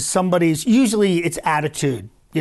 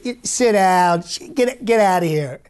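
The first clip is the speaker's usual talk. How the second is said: curt Trump dismissal. Retold or imitated. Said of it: "short and curt".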